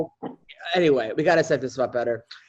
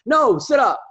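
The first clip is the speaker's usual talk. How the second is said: lightly voiced demanding child, pitched up; a hint of a toddler giving orders, higher; bossy toddler; 7 semitones higher, 4 dB louder, slower than usual. Daughter ordering sleepy dad to sit up, lightly bossy.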